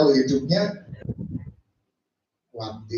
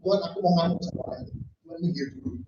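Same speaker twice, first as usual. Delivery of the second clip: quick offhand aside; 5 dB quieter, much faster than usual. Retold or imitated. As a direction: brush God off in a quick undertone. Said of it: "bahkan dia ngomong". (cepat dan pelan, acuh tak acuh)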